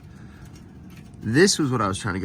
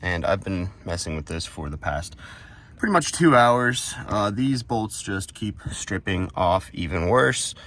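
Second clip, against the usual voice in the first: talking while lying on your back under a car; strained voice from lying under a car. Real, not acted. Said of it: "I'm under the car".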